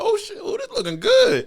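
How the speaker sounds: high-pitched excited shout; hyped crowd. Retold or imitated. Retelling the crowd's reaction to crispy wings, a high excited shout. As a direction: sell it like the crowd tasting great wings. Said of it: "everybody in the crowd, like".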